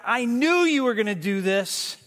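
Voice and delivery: a touch of petulant anger; I knew stressed, mildly resentful; Jonah's anger. Acted. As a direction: complain like sulking Jonah. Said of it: "And he says to God".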